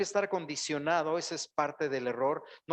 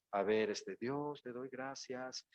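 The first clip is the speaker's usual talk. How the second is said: soft, slow, barely-there mock prayer; timid quiet prayer; 2 semitones lower, 5 dB quieter, slower than usual. Preacher mocking a timid churchgoer, in a soft, slow mock prayer. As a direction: mumble your thanks like you're afraid to be heard. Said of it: "no me puedo quedar tan callado así".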